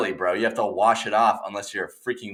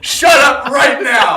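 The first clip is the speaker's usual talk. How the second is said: high shrieking shout of disbelief; incredulous shout; 11 dB louder, slower than usual. Real, not acted. Yelling at a friend over a sandwich, outraged shout. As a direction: yell it in mock outrage at a friend.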